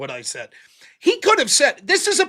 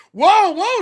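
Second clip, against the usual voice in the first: high, louder mock moderator cutting in; a hint of a moderator calling for calm; moderator's whoa; 9 semitones higher, 5 dB louder than usual. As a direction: imitate a moderator stepping in. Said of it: "says the moderator".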